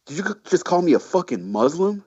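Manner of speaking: hammed-up furious question; mock outraged accusation. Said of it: "he just goes".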